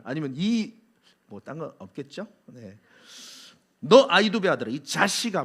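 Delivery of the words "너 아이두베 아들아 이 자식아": louder, scornful name-calling; contemptuous insult. Retold or imitated. King Saul insulting the priest with scorn. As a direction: sneer the name down at him. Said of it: "완전히 무시하는 말을".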